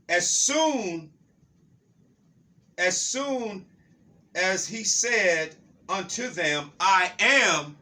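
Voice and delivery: slow, weighty proclamation with pauses; dramatic scripture reading. Acted. Preacher reading John to listeners, slow and forceful. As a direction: draw out the verse for suspense.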